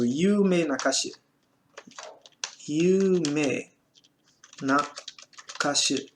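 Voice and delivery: syllable by syllable, very slow; slow dictation. Shown as a demonstration. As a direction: spell out "Yume Nakashi" slowly for students. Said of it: "Cantor famoso". (ditado bem lento)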